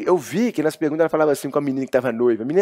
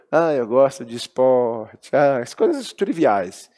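bland; much slower than usual. Shown as a demonstration. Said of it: "Mas aí eu falei".

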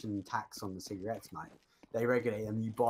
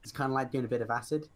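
helium voice. Real, not acted. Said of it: "Do you like my voice?".

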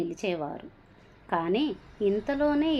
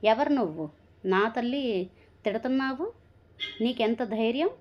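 angry; 3 semitones higher than usual. Acted. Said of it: "కోపంగా".

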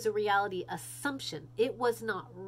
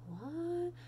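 incredulous what; 8 semitones higher, 5 dB quieter than usual. Real, not acted.

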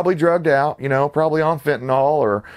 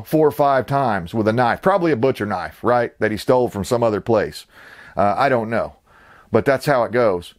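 normal talking voice

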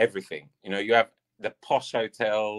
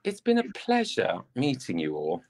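British accent. Shown as a demonstration. Guest saying a polite British farewell on request, British accent. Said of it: "say the most British thing you can think of in a British accent".

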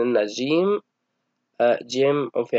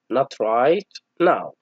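very slow, clear refusal phrase; slow model reading; much slower than usual. Shown as a demonstration. Teacher repeating the chosen phrase, slow. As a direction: stretch it out so pupils can copy. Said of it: "لاحظوا معي اخترنا هذه العبارة".

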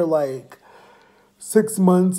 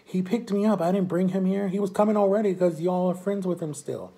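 higher-pitched retold self-defence; defensive protest; 5 semitones higher than usual. Speaker answering friends who blamed them, defensive protest. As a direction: protest your innocence, pitch held up.

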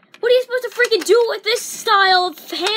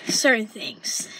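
breathy hushed aside; whisper; 9 semitones lower, 3 dB quieter, slower than usual. Real, not acted. Ranting kid whispering to the camera. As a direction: drop to a whisper for the punchline.

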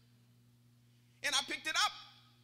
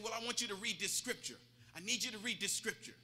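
low, soft, steady pastoral urging; gentle, low insistence; calm counsel; 4 semitones lower, 5 dB quieter than usual. Retold or imitated. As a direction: settle him down, voice lowered. Pastor calmly counsels desperate man.

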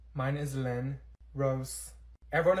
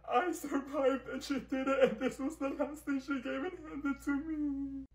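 odd strained voice; 8 semitones higher, 3 dB quieter, slower than usual. Acted. Tearful odd story of mom.

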